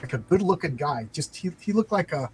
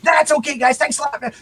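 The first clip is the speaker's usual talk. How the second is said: higher, louder mock neighbor voice; laid-back neighbor; 9 semitones higher, 5 dB louder than usual. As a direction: play the spaced-out guy down the hall politely waving them off. Naked neighbor declines, retold.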